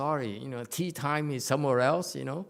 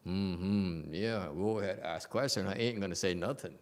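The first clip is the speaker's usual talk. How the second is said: lightly voiced wary student, lower pitch; a low, knowing aside to oneself; smart silent student; 5 semitones lower than usual. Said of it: "it's a smart one say".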